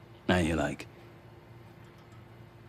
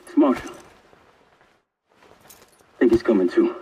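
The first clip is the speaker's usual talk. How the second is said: urgent reassurance; 3 semitones higher, 7 dB louder than usual. Acted. Reaching injured partner.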